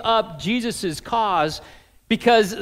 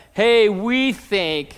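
slow, leaning hard on "we"; stress on we; much slower than usual. Retold or imitated. Preacher leaning on Nicodemus's "we" for the congregation. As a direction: draw out "Hey, we think," with "we" weighted. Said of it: "the big, famous "we".

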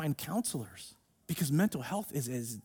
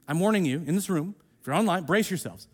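usual speaking voice

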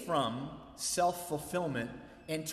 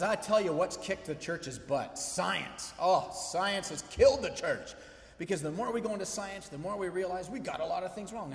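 higher, emphatic mock tirade; letting it fly; 4 semitones higher than usual. Dinner guest says science killed the church, letting it fly. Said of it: "he just lets her fly".

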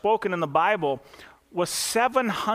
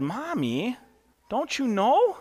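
put-on little girl; 7 semitones higher, slower than usual. Girl quoted in joke story.

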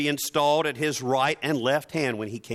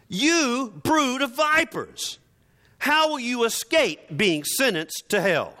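laughing mock denunciation; 8 semitones higher than usual. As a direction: ham up the prophet's insult while laughing. Laughing through the insult.

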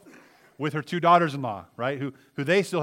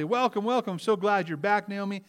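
high, bright welcome; cheerful welcome; 6 semitones higher than usual. Acted. Women welcoming Naomi home, high cheerful greeting. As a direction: greet her like a returning friend.

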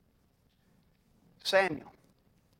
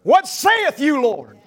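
bold declaration; 3 dB louder, slower than usual. Shown as a demonstration. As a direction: proclaim it loudly. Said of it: "I want you to respond and say".

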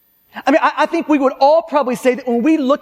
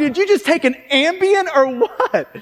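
acted incredulous jab; sarcastic, exasperated questioning; 3 semitones higher than usual. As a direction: needle them with mock disbelief. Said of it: "You see this sarcastic bent".

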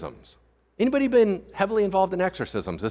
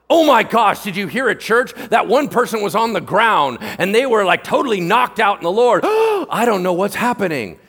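breathless scandalized churchgoer, pitched up; mock shock; 4 semitones higher, 5 dB louder than usual. Churchgoer telling a friend about someone on the ground, mock shocked. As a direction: gasp and gush as if appalled.

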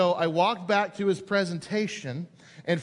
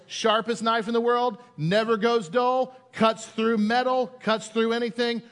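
salesman pitch; 4 semitones higher than usual. Retold or imitated. Salesman pitching the knife to the crowd. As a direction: sell it like a demo salesman. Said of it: "and he goes".

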